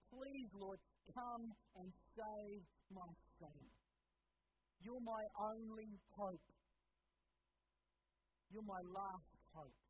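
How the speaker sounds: an earnest, drawn-out plea with firm stress; pleading. Acted. Desperate father begging Jesus to heal his son, pleading slowly. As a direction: plead slowly, as a last resort. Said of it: "pleading with him".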